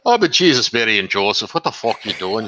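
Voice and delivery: rough go at an Irish mother's brogue; lightly put-on Irish accent, exclaiming; cursing mom in a makeshift Irish brogue. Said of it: "of an Irish brogue".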